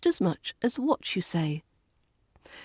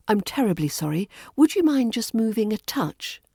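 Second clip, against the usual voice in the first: quick apology, then a higher courteous request; very British politeness; 3 semitones higher than usual. Shown as a demonstration. English teacher modelling an over-polite British request, apologetic. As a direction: apologise politely before asking the favour. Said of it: "that's very British".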